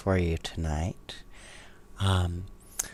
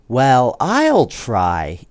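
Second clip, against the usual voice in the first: hesitant try; 2 semitones higher, 6 dB louder, much slower than usual. A narrator's reading. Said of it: "Ingrid said".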